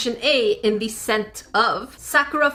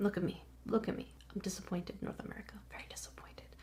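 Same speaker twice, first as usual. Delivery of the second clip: hushed, fast, menacing, disappointed whisper; 3 semitones lower, 20 dB quieter than usual. Addressing North American viewers, whispering in disappointment instead of yelling. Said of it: "instead of yelling, I'm whispering".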